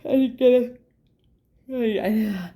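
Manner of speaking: short of breath, yawning; words broken by a missing breath. Real, not acted. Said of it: "I didn't get a full breath on that".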